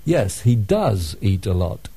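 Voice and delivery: "does" stressed to contradict; emphatic DOES. Shown as a demonstration. Student answers someone who denies it, stressing "does". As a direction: insist by leaning on "does". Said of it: "and then we say".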